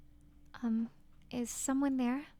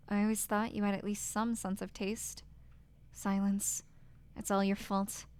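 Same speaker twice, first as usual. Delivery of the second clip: cruel husband. Acted. Husband scorning his wife, a hint of cold contempt. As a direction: sneer it down at her.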